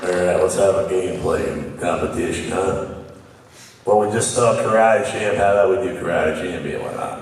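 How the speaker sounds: low, odd host voice; creepy low voice. Real, not acted. Host announcing a game competition in a creepy low voice. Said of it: "This is a creepy voice right now".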